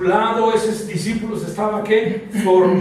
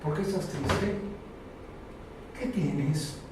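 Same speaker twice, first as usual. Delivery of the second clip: tender question from Jesus; 6 semitones lower, 13 dB quieter, slower than usual. Acted. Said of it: "Jesús te pregunta esta noche".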